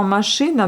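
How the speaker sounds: "machine" as mashyna, with a hard central i; Russian hard I. Shown as a demonstration. Teacher showing what is heard, "machine" as Russian mashyna. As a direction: say "machine" with ы after sh and a final a. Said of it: "On entend le U".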